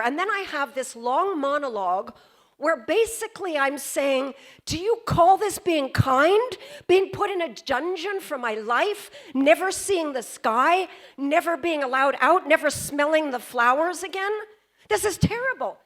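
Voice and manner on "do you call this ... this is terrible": mounting indignant questions, pitched up; dramatic protest. Shown as a demonstration. Joan arguing with the jury over her sentence, indignant. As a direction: plead and protest to change their minds. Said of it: "And I delivered it like that".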